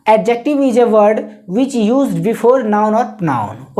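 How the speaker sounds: very slow, word-by-word dictation. Shown as a demonstration. Teacher dictating the definition slowly to students. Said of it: "इसको हम लोग लिख सकते हैं".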